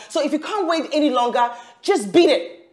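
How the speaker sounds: angry dismissal. Acted. Quarrel, telling him to go.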